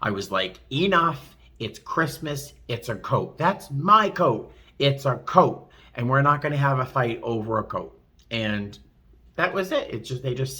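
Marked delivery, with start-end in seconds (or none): 0.7-8.0 stern mother voice. Retold or imitated. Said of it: "I used my mother and my grandmother's voice".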